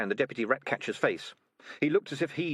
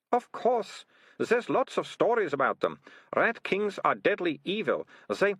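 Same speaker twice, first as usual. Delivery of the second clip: lightly voiced girl, higher pitch; knowing girl; 10 semitones higher than usual. Melissa telling Keith about Rat Kings, knowing. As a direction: explain it as common knowledge.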